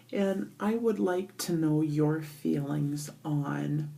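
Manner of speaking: echoey bathroom acoustics; talking in a tiled bathroom. Real, not acted. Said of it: "I'm sorry for the echoiness in here".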